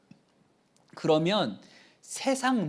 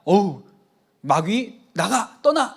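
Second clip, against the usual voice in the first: louder, alarmed then commanding; startled rebuke; 5 dB louder than usual. Retold or imitated. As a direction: catch the thought and drive it out. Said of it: "이렇게 했으면". (놀라서 단호하게 꾸짖듯)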